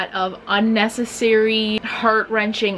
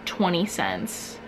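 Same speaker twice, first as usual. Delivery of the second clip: unimpressed cashier; 2 semitones lower, 4 dB quieter than usual. Acted. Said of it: "the person is just like".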